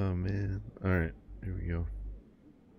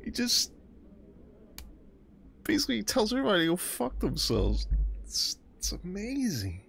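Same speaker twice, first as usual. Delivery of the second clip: laughing; 11 semitones higher than usual. Real, not acted. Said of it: "I'm crying".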